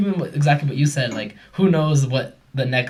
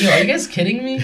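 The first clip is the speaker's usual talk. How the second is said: much higher, a scoffing dude voice; incredulous bro; 9 semitones higher, 4 dB louder than usual. Retold or imitated. Mocking his past self to friends, scoffing much higher. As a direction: scoff like a dismissive guy. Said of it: "I would have been the guy like".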